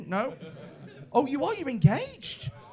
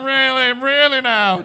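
disbelief; 3 semitones higher, 10 dB louder, slower than usual. Retold or imitated. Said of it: "And you're like".

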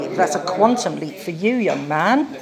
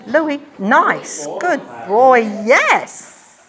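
squeaky praising a dog; 4 semitones higher, much slower than usual. Real, not acted.

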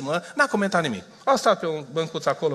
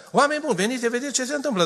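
fast, breathless alarm to the villagers; alarmed call; 6 semitones higher, much faster than usual. Retold or imitated. The frightened shepherd alerting the village, in a fast alarmed call. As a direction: rush the warning out.

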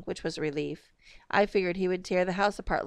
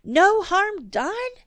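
"No harm done?" pitched way up, slow, loud; exasperated echo; 13 semitones higher, 8 dB louder, much slower than usual. A narrator's reading. Mother repeating father's words, exasperated. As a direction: throw "No harm done?" back in disbelief. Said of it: "thoroughly exasperated".

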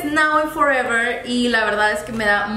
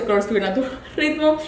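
giggling through the slogan, quick; amused reread of the tagline; laughing while reading; faster than usual. Real, not acted.

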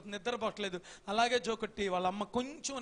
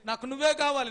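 eager declaration; 3 semitones higher, 6 dB louder than usual. Acted. Son answers wife.

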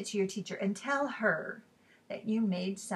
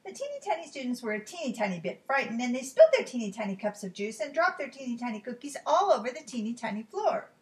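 put-on lively read-aloud for small children; animated storybook narrator; story narration. A narrator's reading. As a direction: read it like a picture book, playing up key words.

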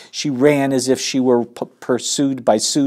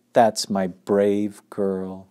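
comforting; 2 semitones lower, much slower than usual. Acted. Mother comforting hurt child.

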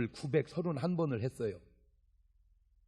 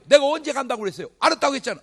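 heated back-and-forth; 9 semitones higher, 12 dB louder, much faster than usual. Retold or imitated. Quarrel between evangelist and local.

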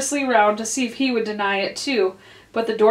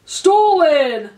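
louder, higher, drawn-out exclamation; exclaimed; 6 semitones higher, 6 dB louder than usual. A narrator's reading. King accusing the Hatter before the jury, exclaimed. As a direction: cry it out in accusation. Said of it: "the king exclaimed".

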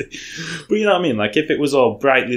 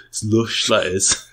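put-on Brummie "lush"; Brummie accent; slower than usual. Shown as a demonstration. Showing friend it won't work, Brummie accent. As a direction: say "lush" with a rounded Brummie vowel. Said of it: "It wouldn't work in the Brummie accent".

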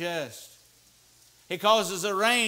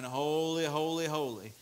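soft, intoned refrain of praise; murmured imitation of endless worship; angels' unceasing cry; 7 dB quieter than usual. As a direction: repeat it softly, as if it never stops. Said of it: "day and night crying".

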